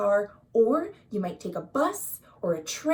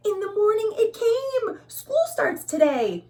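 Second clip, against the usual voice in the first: higher, louder, thrilled; excited; 10 semitones higher, 4 dB louder than usual. A narrator's reading. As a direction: announce it like the best day ever. Reading to children, excited news.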